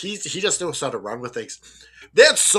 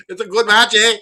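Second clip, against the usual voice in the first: put-on Canadian accent; 6 semitones higher, 9 dB louder than usual. Teasing Canadian accent bit.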